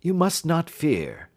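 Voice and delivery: slow, gentle reassurance; calm a frightened lady, slowly; soothing. A narrator's reading.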